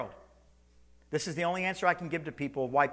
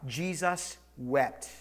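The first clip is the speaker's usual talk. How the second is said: slow reading; 3 semitones lower, much slower than usual. Shown as a demonstration. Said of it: "Say that again".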